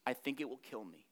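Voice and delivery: fading to almost nothing at the end; modern sad paraphrase. Acted. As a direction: say it like someone worn out with sadness. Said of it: "You and I would say".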